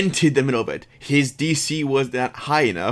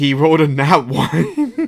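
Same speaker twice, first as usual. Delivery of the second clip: ordinary delivery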